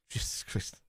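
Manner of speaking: breathy whispered aside, barely voiced; whispered under breath. Real, not acted. Reacting to Gerrard's stats, he whispers in disbelief. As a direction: let it slip out as a hushed whisper.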